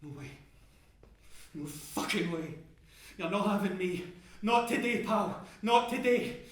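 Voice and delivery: shouting defiance up at the roaring fire; defiant shout. Acted. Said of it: "And I shout right back up".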